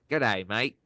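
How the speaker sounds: put-on Aussie greeting; amateur Australian accent. Shown as a demonstration. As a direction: greet them in rough Australian. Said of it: "It's my Australian".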